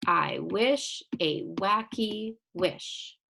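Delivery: slow, evenly separated beats on "I wish a wacky wish"; syllable by syllable. Shown as a demonstration. Teacher taps out syllables for pupils, "I wish a wacky wish" slow and separated. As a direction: tap out "wacky" as two slow beats, each word set apart. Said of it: "tap out each syllable".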